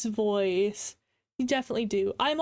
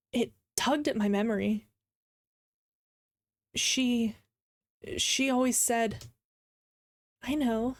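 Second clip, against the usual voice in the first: measured reading with long pauses; unhurried, expressive storytelling; dramatic story narration. Acted. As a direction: read the story aloud, acting the quotes. Reads a story aloud.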